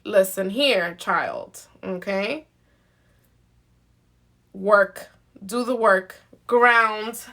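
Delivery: lightly voiced Earth mother laying down the law; stern Mama Earth. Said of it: "She's like".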